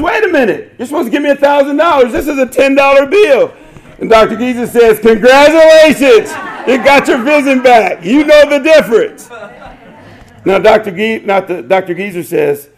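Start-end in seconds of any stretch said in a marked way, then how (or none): 0.0-3.5 high-pitched indignant outburst, fast middle line; mock scream. Young man cheated of his thousand dollars, high indignant mock scream. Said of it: "Mister Young screams and says". 5.0-9.3 high and loud triumphant crow; triumphant doctor. Retold or imitated. Doctor beating the hotshot patient, high loud triumph.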